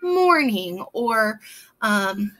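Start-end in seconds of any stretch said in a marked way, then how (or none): 0.0-0.8 "morning" said slowly with a long "or"; drawn-out OR in morning. Shown as a demonstration. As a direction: stretch the OR in "morning". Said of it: "or, like in morning".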